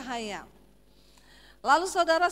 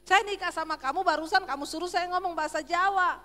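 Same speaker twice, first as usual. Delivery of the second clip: raised, high-pitched protest; high Sulawesi tone; 5 semitones higher than usual. Retold or imitated. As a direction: object with your pitch up. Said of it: "orang Sulawesi kalau ngomong selalu nadanya tinggi". (protes bernada tinggi)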